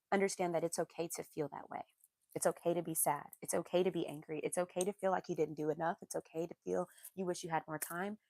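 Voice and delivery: soft, low comforting voice; gentle reassurance. Real, not acted. Comforting a grieving listener.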